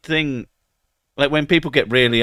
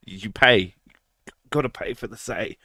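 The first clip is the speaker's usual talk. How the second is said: whispering. Real, not acted. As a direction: whisper the punchline. Whispered joke aside.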